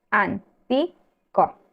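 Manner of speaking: antico drawn out very slowly, syllable by syllable, leaning on TI; stressed syllable shown. Shown as a demonstration. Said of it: "¿Cuál es la acentuada?".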